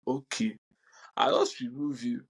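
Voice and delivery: hushed whisper, almost no voice; softly whispered brush-off. Retold or imitated. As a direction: whisper it like a quiet dismissal. Quietly removing insulter from group.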